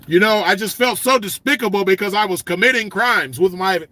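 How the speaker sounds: lightly voiced prim nerd confessing crimes; a touch of a proper, square voice; mocking a nerdy poser. Imitating a lame poser to his listeners, a light prim voice. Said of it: "We don't talk like that".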